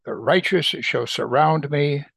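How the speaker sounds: slow, solemn reading of the psalm; scripture reading. Acted. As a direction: read it like a prayer, unhurried. Reads the psalm aloud.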